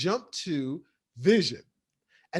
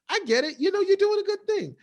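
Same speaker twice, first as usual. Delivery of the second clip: mock-sweet, rising high and louder; sarcastic praise; 13 semitones higher, 3 dB louder, faster than usual. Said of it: "very sarcastic with his, um, praise".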